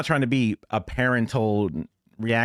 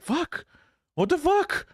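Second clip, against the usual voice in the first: much higher mock shock; shocked exclamation; slower than usual. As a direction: squeal it in disbelief. Acted shocked outburst.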